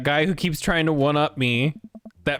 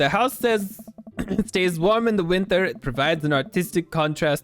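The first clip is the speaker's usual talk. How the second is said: affected character voice. Acted. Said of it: "I don't know if I can keep that one up".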